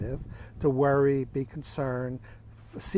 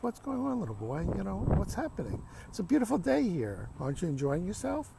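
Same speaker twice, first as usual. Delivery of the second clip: higher, soft lilt of concern; patient, empathetic grandfather; 5 semitones higher, 4 dB quieter than usual. Acted. Grandfather to his crying little grandson, patient and empathetic. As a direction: gently coax an upset child. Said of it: "in a very patient, empathetic way".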